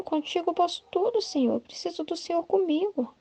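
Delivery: a lightly voiced daring soul begging for him; bold, daring plea. Luisa, reckless with longing, pleads with Jesus boldly. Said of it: "toda atrevida".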